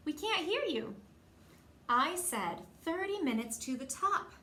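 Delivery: mild mock yell to the group; calling out. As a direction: shout it up the hill. Calling up the trail.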